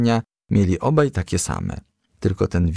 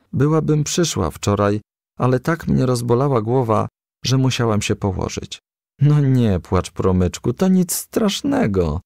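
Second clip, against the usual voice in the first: higher, lightly voiced gentle comfort; Nuna comforting; 3 semitones higher than usual. Nuna comforting the crying Promyczek, higher voice. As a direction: soothe the crying child.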